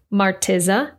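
Martiza as mar-TEE-zuh, extra t; misread name. Retold or imitated. US readers getting her name wrong, misread as Martiza. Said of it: "depending on how they read their name".

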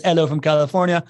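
"Hello" said as "'ello"; dropped H. Shown as a demonstration. Host reading a fan's message, "Hello" without H. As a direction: skip the H at the start of "Hello". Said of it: "not gonna pronounce a single H".

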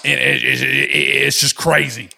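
lightly voiced ranting conspiracy host; Alex rant impression. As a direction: rattle off the list with mounting indignation. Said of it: "Thank you, Alex".

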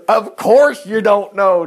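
loud, slow, drawn-out exasperation; hammed-up indignant retort; fuming. A narrator's reading. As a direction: fume it, stretching each word. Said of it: "David fumed".

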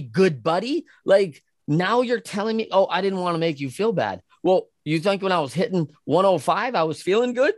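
sarcastic protest. Retold or imitated. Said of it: "I'm like".

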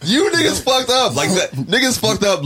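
high, slow, drawn-out hype; hyped-up high exclamation. Acted. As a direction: stretch it out like a victory shout. Hyped boast about his success.

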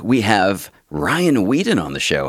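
booming show-host announcer; big hype-man intro read. Acted. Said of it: "you really kicked it into that announcer voice".

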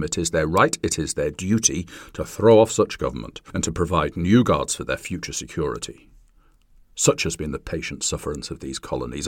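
measured, stately declamation; formal reading. Acted. Podcaster reading the Declaration to listeners, stately declamation. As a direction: read it like a founding document. Reads Declaration of Independence aloud.

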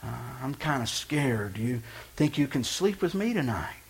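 put-on soft, small frightened child voice; a hint of a scared little boy; weak child voice. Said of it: "this weak voice".

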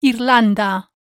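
Irlanda with a short Spanish i and a rolled r. Shown as a demonstration. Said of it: "Repeat after me".

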